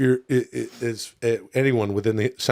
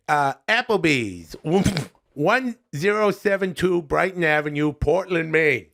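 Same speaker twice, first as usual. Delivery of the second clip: lightly voiced chummy comic reviewer; folksy buddy-to-buddy review, a little put on; Adam Sandler; 3 semitones higher than usual.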